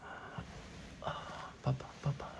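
very soft, breath-light soothing; whispery, tender murmur; hushed comforting. Acted. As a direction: hush someone crying in your arms. Comforting a crying partner with hugs.

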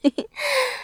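a short high giggle; soft giggle. Acted. Teasing her partner in roleplay, short high giggle. Playful moment in intimate roleplay.

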